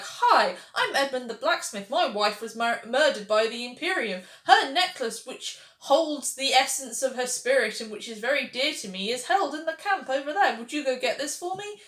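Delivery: mock a stiff RPG blacksmith reciting his backstory; video game NPC. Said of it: "Everyone talks like a video game N P C".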